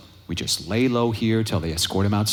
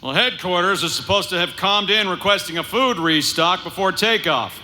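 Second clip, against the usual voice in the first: higher, breezy fake-friendly voice; disguised delivery man; 8 semitones higher than usual. Han bluffing the trooper in disguise, breezy and higher. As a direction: play the innocent delivery guy. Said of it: "nice disguise, Solo".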